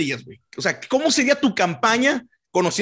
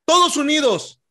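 campaign speech voice; 2 semitones higher than usual. Pretend. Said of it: "le dan ese tonito acá".

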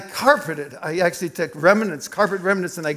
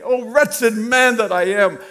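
anguished lament; 4 semitones higher, slower than usual. Retold or imitated. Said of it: "was in my mind saying".

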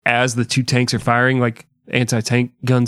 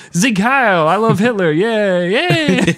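high, put-on gleeful voice; squeaky hammed-up fan; mock cheering; 9 semitones higher, 3 dB louder, slower than usual. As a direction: cheer along in fake enthusiasm. Plays a fake fan cheering.

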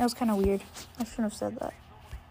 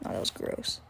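disgusted; 13 dB quieter than usual. Real, not acted. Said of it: "I just spit in my mic".

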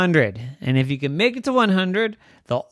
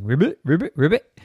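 mild frog croak; faster than usual. Acted. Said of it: "The neighbor started ribbiting".

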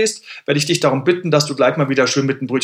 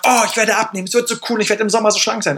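higher, bright hopeful inner voice; optimistic inner voice; 5 semitones higher, faster than usual. Retold or imitated. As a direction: play the eager dieter dreaming of summer. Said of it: "Und eine Stimme sagt". (etwas höhere, hoffnungsvolle innere Stimme)

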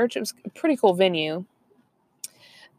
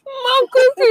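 mouth full; 5 dB louder than usual. Retold or imitated. Mocks friend's full-mouth cookie line.

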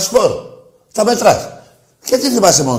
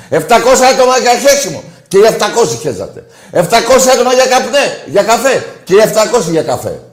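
laughs through the jeers, a bit higher; laughing scorn at rival fans; mocking laughter; 4 semitones higher than usual. Real, not acted. (κοροϊδευτικό γέλιο)

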